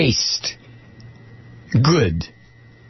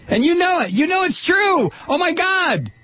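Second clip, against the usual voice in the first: incredulous outburst; 14 semitones higher than usual. Real, not acted. Emphatic rant.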